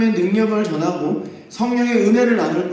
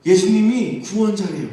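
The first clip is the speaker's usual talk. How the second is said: tattling accuser; 3 dB louder than usual. Acted. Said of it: "가서 고발합니다".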